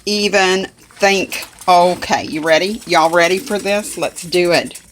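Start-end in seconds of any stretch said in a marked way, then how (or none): 0.0-1.5 excited. Real, not acted. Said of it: "I'm so excited".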